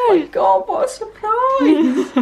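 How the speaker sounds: high, overwhelmed, laughing through tears; real happy tears. Real, not acted. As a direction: cry and laugh at the surprise. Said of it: "Are you crying again?".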